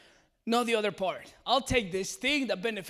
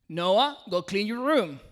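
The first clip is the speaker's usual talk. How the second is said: raised dad voice, firmer; louder repeated order; 8 dB louder, slower than usual. Retold or imitated. Dad repeating the order to his son, louder and firmer. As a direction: insist with a raised voice.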